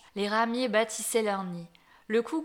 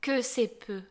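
talking tree; slower than usual. Acted. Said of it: "dit l'arbre".

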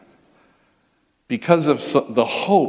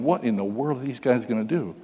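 inner thought; 6 dB quieter than usual. Retold or imitated. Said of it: "he's thinking".

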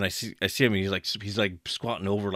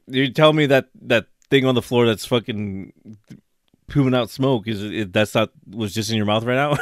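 incredulous confrontation; 2 semitones higher, 5 dB louder than usual. Retold or imitated. Confronting coworker loudly.

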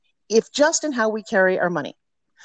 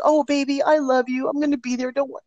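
put-on higher, gently reassuring a worried child; soothing mom; 8 semitones higher than usual. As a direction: comfort her like a guilty mom on the phone. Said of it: "my first response was".

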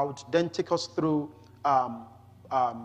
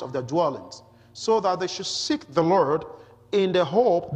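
emphatic, slightly raised public reading; scripture reading. Acted. Preacher reads Paul's Athens speech to the congregation, emphatic scripture reading. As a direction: read the passage out firmly to a congregation.

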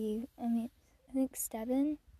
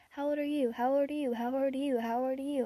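imitating a child; 2 semitones higher than usual. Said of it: "just walked around saying".

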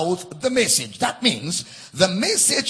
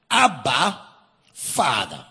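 "Abba" called out strong, "Father" dropped low; overwhelming cry; 5 semitones lower than usual. Shown as a demonstration. Preacher demonstrating the true cry, emphatic. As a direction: proclaim it with full emphasis. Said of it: "No. This is a message of the Spirit".

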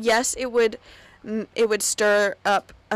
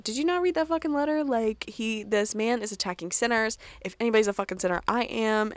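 retold outburst. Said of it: "she's like".

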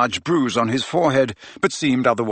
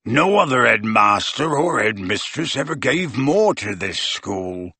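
growled. A narrator's reading. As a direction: growl it in defiance. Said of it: "growled Hagrid".

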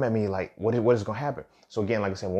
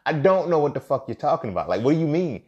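higher-pitched, insistent pushback; retold indignant challenge; 4 semitones higher than usual. Challenging classmate over her attitude remark, indignant. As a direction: demand an explanation, replaying the argument.

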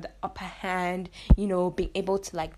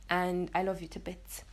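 soft whispered thanks to listeners; 2 semitones lower, 5 dB quieter than usual. Real, not acted. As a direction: whisper it close and tender. Host thanks her listeners.

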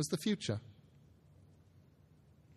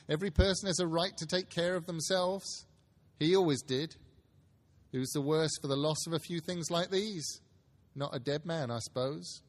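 put-on high old woman voice; 4 semitones higher than usual. Charwoman continues.

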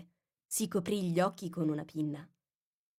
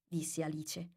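ordinary delivery

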